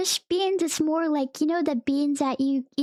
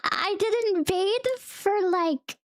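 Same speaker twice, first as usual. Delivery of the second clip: laughing confession; 3 semitones higher, slower than usual. Real, not acted. Confessing not bathing, laughing.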